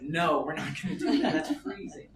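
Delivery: laughing it off, voice jumping up; laughing refusal. Retold or imitated. To wife at the icy water, laughing no way. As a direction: chuckle through the refusal.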